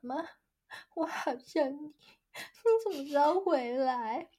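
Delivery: high-pitched mock sob with long breaks; choked-up child imitation. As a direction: choke up between phrases like a homesick child. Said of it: "就那边给我哽咽".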